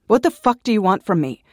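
screaming at an unwanted friend; angry outburst. A narrator's reading. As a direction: lash out at him with full anger. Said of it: "I shot back angrily".

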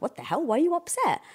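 mock bewilderment, pitch jumping up on the question; imitating a partner caught off guard; puzzled question swinging high at the end; baffled retort. Acts out partner's baffled reply.

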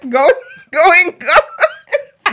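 high, loud laughing home run call; baseball announcer. Pretend. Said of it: "it's more like baseball".

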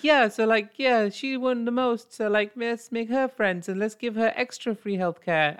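put-on high, loud jokey Canadian accent; mock Canadian accent. Teasing Canadians with friend, high mock Canadian accent. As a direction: ham up a chirpy Canadian. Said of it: "Canadian accent too long".

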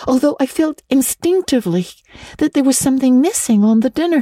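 a hint of a dreamy chattering girl; eager Anne. Girl explains to Marilla why she forgot the pie, eager.

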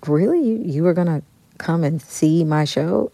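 can't believe it, rising up; amazed disbelief. Retold or imitated. Star says he wanted come.

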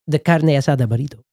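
carne asada with a trilled r in carne; rolled r. Shown as a demonstration. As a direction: roll the r in carne, Spanish style. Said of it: "I love rolling R's".

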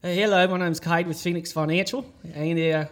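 a light Australian accent; debt call in a mild Australian accent. Shown as a demonstration. Debt collector greeting a debtor, mild Australian accent. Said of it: "Do the accent".

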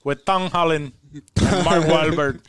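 put-on slow, deliberately poor Hispanic accent; slow, lightly done fake Hispanic accent; bad Hispanic accent. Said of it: "How do you do that accent so poorly".

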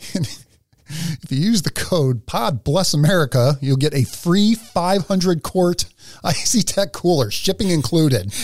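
slow, drawn-out mock ad read; slow mock commercial voice. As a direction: read it like a cheesy sponsor spot. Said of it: "Should we do one of our reads for him".

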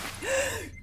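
startled gasp; sharp gasp. Acted. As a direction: gasp in alarm. Patient suddenly wakes.

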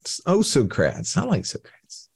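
Socrates said as the host says it, soh-krahts; wrong pronunciation. Real, not acted. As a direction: Socrates in two syllables, soh-krats. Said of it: "the correct pronunciation is Socrates".

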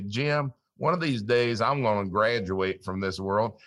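lightly attempted Southern drawl; hint of a Southern accent, badly imitated; poor Southern accent. Host quotes his late friend's farewell, light Southern drawl. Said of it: "I can't do a great Southern accent".

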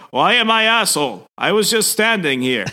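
high-pitched, put-out bewilderment; mock-wounded claim of innocence; indignant protest. Cyclops blamed as a bystander, high indignant protest.

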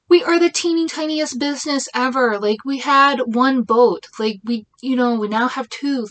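exasperated. Real, not acted. Exasperated complaint, pitch jumps.

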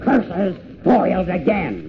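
mustache twirling villain. Acted. Wolf foiled again.

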